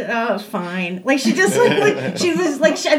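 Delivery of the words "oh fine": lower, resigned give-in; retold reluctant concession; grudging surrender. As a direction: imitate an official reluctantly relenting. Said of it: "this long pregnant pause, and she goes".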